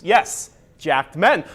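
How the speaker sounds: slow, lingering on each word; drawn out. Shown as a demonstration. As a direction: savor the words slowly. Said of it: "Or should I say".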